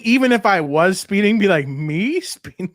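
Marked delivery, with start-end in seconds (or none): 1.7-2.7 slow, softer, drawn-out disbelief; playing stupid. Shown as a demonstration. Friend checking the tactic as a speeding driver, playing stupid. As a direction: stretch it out as if baffled. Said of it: "play stupid?".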